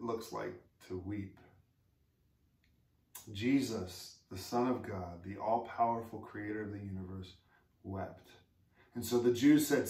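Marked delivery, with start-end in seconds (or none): 3.3-8.3 hushed solemn. Real, not acted. Pastor dwelling on Jesus weeping, hushed and solemn. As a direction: let it sink in, quietly.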